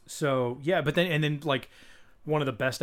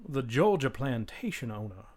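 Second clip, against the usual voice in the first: slow Southern plantation-owner drawl; genteel Southern accent, slowed right down; Georgia plantation drawl. Shown as a demonstration. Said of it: "two types of Southern accents".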